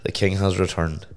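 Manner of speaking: hoarse from tonsillitis; rough, gravelly throat. Real, not acted. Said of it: "Sorry about the gravelly voice".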